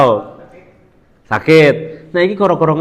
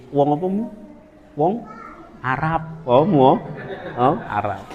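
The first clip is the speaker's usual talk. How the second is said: mock dialogue; 9 dB quieter than usual. Acted dialogue, mishearing Arab.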